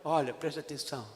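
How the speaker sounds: low, soft, solemn divine voice; voice of the Lord. Acted. Preacher voicing God softly to the congregation, hushed and solemn. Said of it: "O Senhor começou a falar assim comigo".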